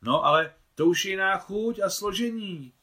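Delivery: high, loud stubborn insistence; insisting. Acted. Claudine insists to Nicole that reheated food tastes different, loudly. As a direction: dig in and refuse to give way. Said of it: "trvala na svém Claudine".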